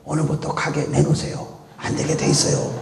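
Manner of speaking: breathy hushed secret; stage whisper. Shown as a demonstration. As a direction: whisper it so nobody hears. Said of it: "아무도 안 듣게 귓속말로 얘기할게요".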